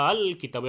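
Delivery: আল recited as a long held "aaaal", then কিতাব; three-alif elongation. Shown as a demonstration. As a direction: stretch the first vowel of আল very long before কিতাব. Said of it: "তিন আলিফ লম্বা করে পড়লে".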